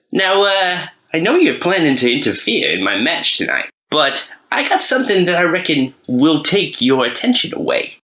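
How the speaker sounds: mock cocky wrestler calling out the bosses; wrestler promo voice. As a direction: cut a cocky promo on the mic. Rat Trap cuts a promo.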